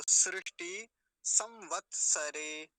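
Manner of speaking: slow, split into syllables; loud, drawn-out teaching demonstration; model pronunciation. Shown as a demonstration. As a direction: say it piece by piece, firmly. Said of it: "ऐसा हो जाएगा".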